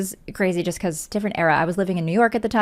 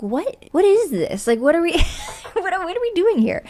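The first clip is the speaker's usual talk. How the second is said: rising higher and laughing in disbelief; retold bafflement; 9 semitones higher than usual. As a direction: act stunned by all the invites. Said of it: "And I was like".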